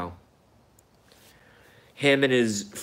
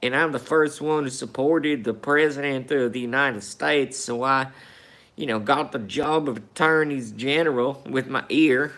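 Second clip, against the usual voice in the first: mock Southern boy; 4 semitones higher than usual. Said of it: "little Jeff Sessions talking about".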